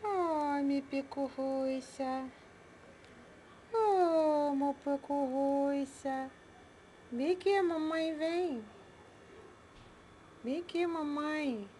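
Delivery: put-on high sing-song baby talk to pets. Owner cooing to her pets in baby talk. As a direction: coo at the little animals like a doting mom.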